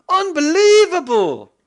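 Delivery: high, loud, slow put-on cry of wonder; mock amazement. Maker marvelling at his circuit, hammed-up high voice. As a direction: stretch it out slowly, high and loud. Gleeful catchphrase after success.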